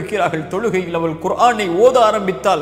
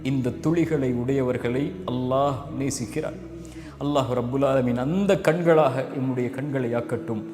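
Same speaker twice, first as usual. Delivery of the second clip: softer and lower, sorrowful sermon close; hushed closing plea; 4 semitones lower, 5 dB quieter than usual. Acted. Preacher quietly urging the congregation to weep for God. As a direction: drop the voice, pleading quietly with the listeners.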